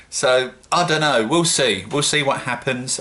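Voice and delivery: half-shouting without meaning to. Real, not acted. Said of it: "I don't know why I'm shouting".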